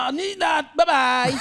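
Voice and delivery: called-out goodbye, high; playful shout. Pretend. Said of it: "Paano magsabi ng babay sa Japan?". (masayang sigaw ng paalam)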